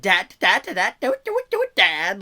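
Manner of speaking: loud, choppy stuttered "dad, do it" scratched like a DJ record; DJ remix stutter. Pretend. Son turning his stutter into a DJ remix, loud and choppy. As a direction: chop the words up like a DJ remix, with a big pitch jump on the middle "do it". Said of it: "He'd be like".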